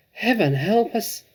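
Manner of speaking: high, slow, loud plea; fearful cry. Acted. Mother clutching her husband, crying out in fright. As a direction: cry out in terror. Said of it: "cried the mother".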